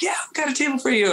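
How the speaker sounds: very high, fast chirpy host voice; quick squeaky mock host; restaurant's reply.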